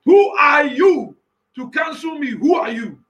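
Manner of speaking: shouted challenge; voicing God. Preacher as God, challenging whoever cancels him. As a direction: hurl the question at them. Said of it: "That's what God is saying".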